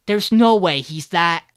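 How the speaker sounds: loud and slow, mock disbelief; hammed-up shout of denial; loud disbelieving quote. Finn gasping at the villain, mock loud disbelief. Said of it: "Finn does the".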